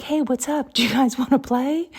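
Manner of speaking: high, bright fox voice calling to play; be the fox inviting the dogs to play; playful fox. Pretend. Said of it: "be like".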